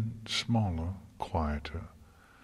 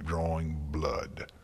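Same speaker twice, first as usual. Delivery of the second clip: plain reading voice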